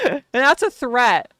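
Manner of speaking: fake-threaten them with care; mock menacing threat.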